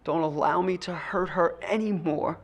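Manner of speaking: begging God under his breath; hushed desperate prayer. Retold or imitated. In the kitchen, praying not to hurt his wife, hushed plea. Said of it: "the most profound prayer".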